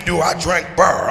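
light mock St. Louis accent, "burr" with a heavy R; a slow imitation of a local offering a drink. Local asking the comedian about beer, mock St. Louis accent. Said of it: "I thought I landed in a land of R's".

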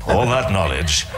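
mock Stephen Fry. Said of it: "that Stephen Fry thing".

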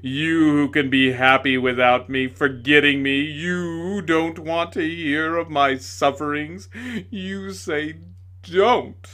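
loud, slow, sneering accusation; bitter tirade. A narrator's reading. Tragedian accusing the lady, loud sneering tirade. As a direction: hurl every don't back at her.

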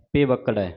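ਪੇਵਕੜੈ as pe-vak-rai with a flapped r; pronunciation demo. Shown as a demonstration. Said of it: "ਪੇਵਕੜੈ ਪਾਠ ਉਚਾਰਨ ਕਰਨਾ".

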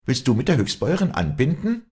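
loud acted retort; loud challenge. A narrator's reading. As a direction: call out a haughty challenge. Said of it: "rief Walli laut".

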